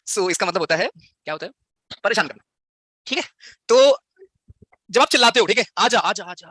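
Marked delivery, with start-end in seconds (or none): 5.8-6.5 पहाड़ से खुली पुकार, "आजा" खींचकर; दूर तक आवाज़ भेजते हुए "आजा" पुकारो; पहाड़ पर पुकारना. Shown as a demonstration. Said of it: "ऐसे एक होता है ना". (पहाड़ पर खड़े होकर पुकारते हुए)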